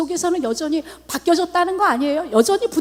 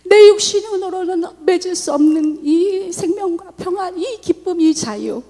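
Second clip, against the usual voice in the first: tearful praise; 4 semitones higher, 4 dB louder than usual. Retold or imitated. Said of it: "주님을 찬양해요".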